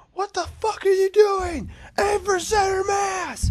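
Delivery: high-pitched, full-force shout, mimicking an alarmed shooter; furious yelling. Shooter yelling at the man next to him on the line, furious shout. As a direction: yell it out as an outraged rebuke. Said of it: "like, yelling".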